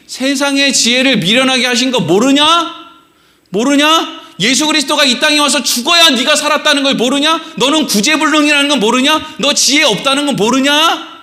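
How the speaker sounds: mildly scolding, pressing repetition; rebuking challenge. Acted. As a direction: hammer each question at the listener. Voices repeated rebuking questions.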